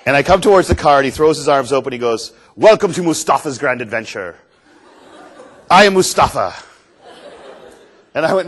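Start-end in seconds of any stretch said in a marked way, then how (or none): 2.6-6.6 loud showman's greeting, imitating the guide; grand welcome. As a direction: announce yourself like a proud adventure host. Guide greets him, arms thrown open.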